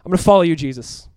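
loud, defiant declaration. Acted. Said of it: "by being even louder".

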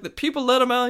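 over-the-top Australian impression of an angry wildlife host; terrible Australian accent. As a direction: ham up a bad Aussie accent, pitched high. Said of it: "That's my terrible Australian accent".

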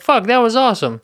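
high-pitched excited exclamation; thrilled concertgoer. Retold or imitated. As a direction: imitate a fan buzzing after a show. Acting out a thrilled concertgoer leaving.

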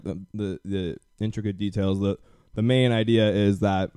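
talking around a grape; words chewed through a mouthful; mouth full. Real, not acted. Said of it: "Sorry, I was eating a grape".

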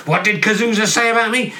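lightly voiced paranoid God; a hint of an offended God; touchy God. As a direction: ask as a thin-skinned deity.

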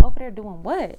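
loud, suspicious snap; sharp retort. Retold or imitated. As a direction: demand it sharply.

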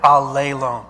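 "alelon" sounded out as ah-LAY-lone; pronunciation for repeating. Shown as a demonstration. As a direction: lead the room in saying "alelon", stress on LAY. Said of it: "Let's say that".

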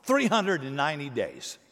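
said through a laugh, casual; God, laughing. Acted. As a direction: hand down the absurd order with a chuckle. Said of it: "God says".

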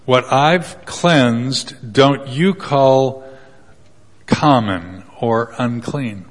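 slow, solemn voice of God; lightly voiced slow God; deep voice of God. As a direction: say it slowly like God rebuking. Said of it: "in this deep voice".

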